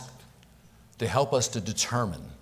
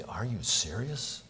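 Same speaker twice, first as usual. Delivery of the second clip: 1 mild surprised wife; 6 dB quieter than usual. Retold or imitated. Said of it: "Seeking to confirm something that seems so surprising".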